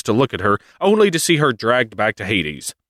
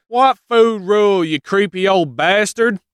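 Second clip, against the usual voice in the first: much higher, mock outraged snap; indignant Demeter; 10 semitones higher than usual. Demeter insulting Hades in a hammed-up high outraged voice. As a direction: spit the insult in comic fury. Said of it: "Demeter's like".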